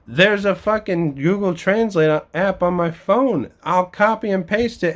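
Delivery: high, heated rant; building frustration; exasperated rant. Real, not acted.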